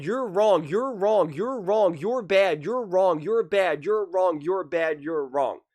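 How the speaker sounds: mock indignant accuser. Commentator mocking the league scolding fans, petulant chant. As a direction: hammer the blame over and over, mockingly.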